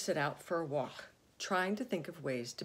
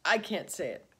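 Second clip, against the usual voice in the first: giggling; 5 dB louder than usual. Acted. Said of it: "giggled the rhinoceros".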